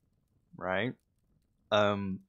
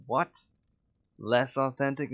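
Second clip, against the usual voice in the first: higher, louder incredulous echo; mock disbelief; 6 semitones higher, 6 dB louder than usual. Actor hearing the odd note, mock incredulous. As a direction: throw the note back in disbelief. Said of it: "And I was just".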